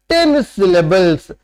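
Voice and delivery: very slow, every word drawn apart; slow dictation. Shown as a demonstration. Teacher dictating the definition to students, very slowly. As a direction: read it out for note-taking.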